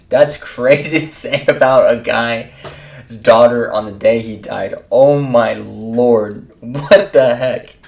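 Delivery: drawn-out, amused disbelief with a laugh; slow, incredulous reaction; real shocked disbelief. Real, not acted. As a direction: stretch it out loud, stunned by what was said.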